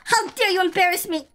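mock outrage. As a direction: scold the cat in mock fury. Scolding the fleeing cat.

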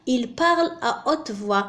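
slow, deliberate dictation pace; slow example. Shown as a demonstration. Teacher rereads the second example to students, slowly. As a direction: spell the sentence out with your voice. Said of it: "مثل".

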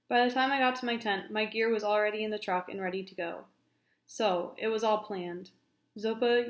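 lively read-aloud storytelling; story narration. Acted. Teacher reading a novel chapter aloud, animated narration.

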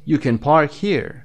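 short unstressed can before a stressed park; weak can. Shown as a demonstration. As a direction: slide over can and land on park. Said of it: "can you hear the difference". (can کوتاه، تأکید روی park)

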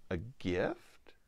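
soft whispered "A gift?"; whispered question. Acted. Girl answering the lion, whispered question. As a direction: whisper it back in wonder.

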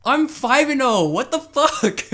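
loud, high, stretched-out boast; excited brag. Real, not acted. Bragging to his teammate about his score, loud and excited.

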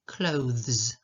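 "clothes" with full OH, then voiced th into z; clear th-z ending. Shown as a demonstration. Teacher showing a tricky word, "clothes", with careful th-z. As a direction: sound out the th and z in "clothes". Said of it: "To jest O, th, z".

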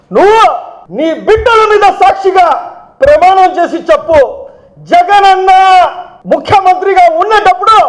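high, insistent demand; angry challenge. Real, not acted. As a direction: throw down a challenge to a political rival. Challenging rival to swear an oath.

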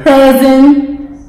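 talking around a mouthpiece; wearing a mouthguard. Real, not acted. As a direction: read it with a mouthguard in. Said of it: "the person with the mouthpiece in reads a card".

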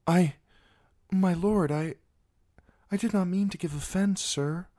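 high, halting, flustered apology; flustered stammer. A narrator's reading. Sansa stammers an apology to Sir Loras, flustered and high. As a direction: stumble over the words in a panic.

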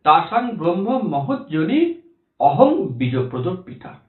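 slow, measured chant of a Sanskrit shloka; slow devotional Sanskrit recitation; Sanskrit verse recitation. Shown as a demonstration. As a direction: recite the verse slowly and reverently. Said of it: "ভগবান শ্রীকৃষ্ণ বলছেন".

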